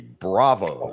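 "Bravo" said slowly and crisply as a model; over enunciating. Shown as a demonstration. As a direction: teach "Bravo" syllable by syllable. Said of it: "Repeat after me".

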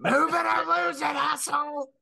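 high, lilting road-rage holler; lilty high-pitched voice. Acted. Driver cursing at traffic, in a lilty high-pitched voice. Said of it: "like, high-pitched voice".

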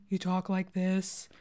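slowed, put-on masculine voice, lightly done; a woman faking a man's voice, only a little; fake man's voice. Shown as a demonstration. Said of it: "if you wanna try to sound like a man".

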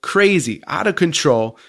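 a touch of disbelief at the calm exits; lightly hammed-up wonder; amazed question. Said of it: "he asks the prime minister".

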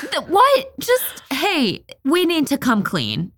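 high, sputtering disbelief; incredulous objection. Real, not acted. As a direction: stammer in high-pitched protest, then plead for sense. Objects loudly to the friar's plan.

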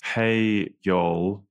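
mild American Southern "Hey, y'all"; a light try at a Southern drawl; American accent attempt. Shown as a demonstration. The speaker greets listeners trying an American accent. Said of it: "me trying to do an American accent".

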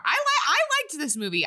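high-pitched, laughing admission; sheepish laughing confession. Real, not acted. Confessing she liked the film.

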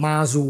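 "มาซู" as an unsure Mandarin attempt; Mandarin pronunciation. Shown as a demonstration. Expert unsure of Mandarin, attempting "มาซู" as its pronunciation. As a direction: try "มาซู" the Mandarin way, ending on "ซู". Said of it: "ภาษาจีนกลางเนี่ย มันออกเสียงไงไม่รู้ ไม่แน่ใจนะ".

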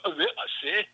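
incomprehensible Scottish mumbo-jumbo; mock Scottish accent. Shown as a demonstration. Showing how Scots talk so no one can follow, in a mock Scottish accent. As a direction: babble in an impenetrable Scottish accent. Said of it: "talk in such a way where no one can".

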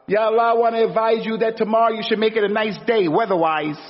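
mock a silly believer advising God; mock naive prayer. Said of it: "Is that what it means".

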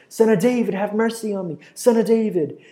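high, loud insistent plea. Acted. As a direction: push the cry up and keep calling. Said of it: "he cries out all the more".

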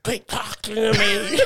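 high, slow, laughing through the words; mock plea cracking up with laughter. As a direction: beg through giggles to stop. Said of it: "So I'm like".

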